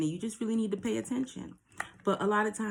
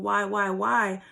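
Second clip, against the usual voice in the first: slow, louder mock lament; mock crying wail; 5 dB louder, slower than usual. Person crying over a lost situation, mock wailing. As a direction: draw out a pretend wail of despair. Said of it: "crying like".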